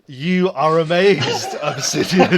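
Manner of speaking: laughing. Real, not acted. GM laughs through narration.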